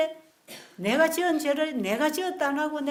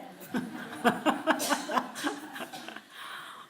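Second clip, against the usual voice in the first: breathy laugh; 3 semitones higher than usual. Real, not acted. Laughs at own joke.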